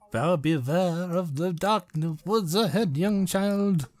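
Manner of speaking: put-on slow, spooky warning to a child; a lightly voiced horror narrator, drawn out; horror movie voice. Friend asks if he's doing the horror voice, slow spooky warning. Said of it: "a horror movie voice?".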